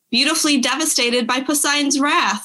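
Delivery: reads the quote through laughter; can't keep a straight face reading it; laughing while reading. Real, not acted.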